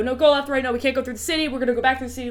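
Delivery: squabble over directions; mild mock argument. Crew arguing over the route.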